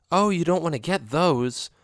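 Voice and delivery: a knowing, warning alley cat; lightly voiced friend cat. Friend cat Oreo warning him off the rocks, lightly voiced.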